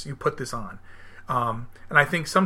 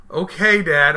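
imitating little daughter; 2 semitones higher, 7 dB louder, much slower than usual. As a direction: mimic a sleepy kid giving in. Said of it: "she goes".

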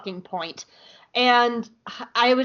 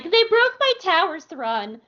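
high whiny mock complaint; mock Orinda; 8 semitones higher than usual. Thrawn hears governor's mock whine. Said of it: "Orinda's like".

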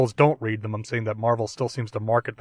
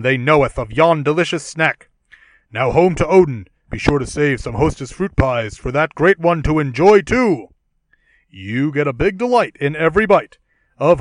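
grand archaic hero, louder; hammy stage actor; 6 dB louder than usual. Acted. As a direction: ham it up like a stage Thor. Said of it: "we can do a dramatic reading".

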